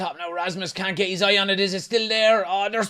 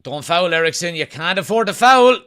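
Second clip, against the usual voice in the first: urgent shout; 7 dB louder than usual. Real, not acted. Urging a player mid-match.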